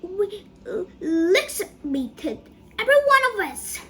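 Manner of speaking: high, loud wail of dread; distressed cry. A narrator's reading. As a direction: wail it out, breaking up the words. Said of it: "cried Grandma Georgina".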